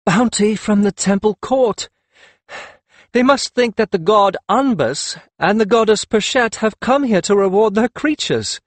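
high, loud, laughing exclamation. Acted. Akhet Ten laughing helplessly at the pets, high and loud. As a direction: burst out through gales of laughter. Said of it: "broke up into gales of laughter".

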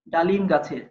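"ডালিম গাছের" as its own unit with a pause after; phrase then pause. Shown as a demonstration. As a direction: say "ডালিম গাছের" in one breath, then stop. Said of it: "পরে থামি". ("ডালিম গাছের" এক প্রয়াসে বলে থামা)

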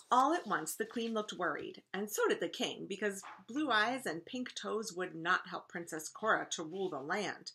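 lively, clearly phrased read-aloud; story narration. A narrator's reading. Teacher reading a picture book to first graders, story narration. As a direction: read a storybook to children with expression.

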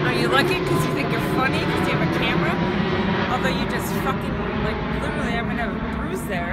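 loud fast angry rant. Real, not acted. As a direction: rush it out furiously. Ranting at filming neighbor.

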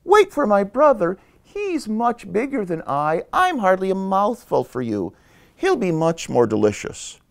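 high-pitched little-goat plea; little goat pleading. Acted. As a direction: plead with the troll in a tiny high voice. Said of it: "little Billy Goat Gruff said".

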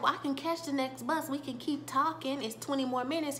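put-on a girl stalling so she can keep talking; a hint of a sweet young woman; lightly voiced girlfriend. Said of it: "she's just like".

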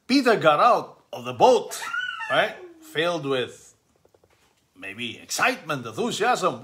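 reading scripture aloud to the family; measured scripture reading; gospel reading. Acted. Reading the gospel aloud to the family, measured.

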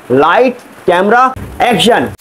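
slow drawn-out call to start the take; director's call. Acted. Director calling action to his actor. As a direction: call out the shot like a film director.

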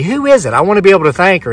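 high-pitched retold plea; insistent pleading. Winner asks clerk who the lady is, pleading. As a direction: press urgently for an answer.

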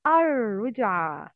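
الرجعة with a long rolled R, no L; lam shamsiyya. Shown as a demonstration. Teacher extracting lam shamsiyya words, stretched double R in الرجعة. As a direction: drop the L in الرجعة and hold the doubled R. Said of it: "words with لام شمسية".

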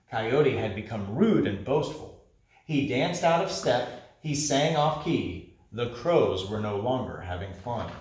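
lively storybook narration for a class; teacher reading to the class, storytelling voice; reading a story to children. Acted. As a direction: read it aloud like picture-book time. Teacher reads picture book aloud.

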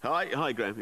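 high, loud phone greeting; mimicked mobile caller. Passenger greeting someone on a mobile, high and loud. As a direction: imitate someone hailing a friend by phone. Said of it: "started talking on the mobile phone".

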